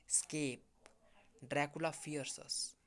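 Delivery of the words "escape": Escape. given its own weight, set apart and falling; stress on escape. Acted. Van Helsing stressing the word to the hunters, weighted Escape. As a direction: lean on Escape. as the key word. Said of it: "Van Helsing stressed that word".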